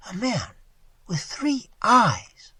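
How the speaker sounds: slow, high astonished question. A narrator's reading. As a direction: stretch it out in disbelief. Waitress asks astonished.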